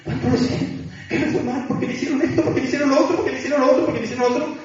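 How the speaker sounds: playing the victim. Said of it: "Y el victimismo". (victimismo fingido, quejándose)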